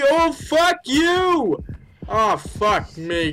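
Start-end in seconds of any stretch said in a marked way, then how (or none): 0.0-1.6 frightened curse. Real, not acted. Monster chasing her.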